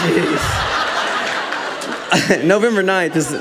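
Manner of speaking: breathy embarrassed laugh while correcting; laughing through words. Real, not acted. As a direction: giggle as you fix the mistake. Still laughing at birthday mix-up.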